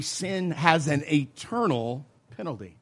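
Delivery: "eternal" stretched out for emphasis; stress on ETERNAL. Shown as a demonstration. Teacher showing how to present sin's penalty, emphatic "eternal". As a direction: put deliberate weight on "eternal". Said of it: "Let's emphasize the word eternal".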